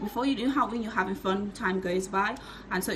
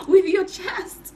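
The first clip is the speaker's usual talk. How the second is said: slow, louder and higher, every word stressed; emphatic slow; 9 semitones higher, 9 dB louder, slower than usual. Shown as a demonstration. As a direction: drive the words home slowly. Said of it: "Hit it with your chest".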